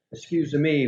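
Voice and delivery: lightly imitated Italian accent. Great-grandfather's habit after he sneezed, retold with a slight Italian accent. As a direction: borrow a hint of Italian affectation. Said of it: "with a sort of Italian accent".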